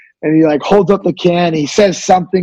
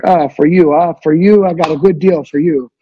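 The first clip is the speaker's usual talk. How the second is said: imitating pushy vendor. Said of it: "they're always like".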